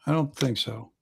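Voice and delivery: slightly hushed character reply; understated quiet aside; saying it quietly. Acted. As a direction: say it quietly, a little guarded. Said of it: "she kinda says quietly".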